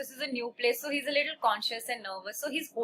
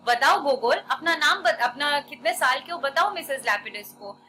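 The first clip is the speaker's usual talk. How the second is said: coaxing parent; 3 dB louder, much faster than usual. Acted. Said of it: "जैसे parents बोलते हैं ना".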